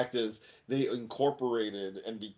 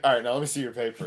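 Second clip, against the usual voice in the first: brisk retold request; much faster than usual. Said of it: "I'm like".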